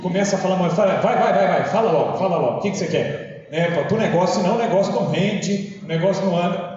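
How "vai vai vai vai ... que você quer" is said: retold impatient prodding; mock impatience. Teacher pressing a long-winded student to speak, impatient. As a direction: hurry them along, mildly exasperated. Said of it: "começa a me dar uma agonia".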